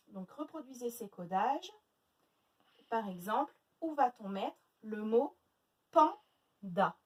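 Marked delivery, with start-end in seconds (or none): 5.9-7.0 PANDA as pan, pause, da; split into syllables. Shown as a demonstration. Teacher gives the class the word panda, syllable by syllable. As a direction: break panda into two separate beats. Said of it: "deux syllabes".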